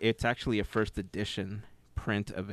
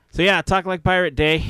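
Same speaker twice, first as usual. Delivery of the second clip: excited announcement; 8 semitones higher, 9 dB louder than usual. Real, not acted. Announcing the day's theme.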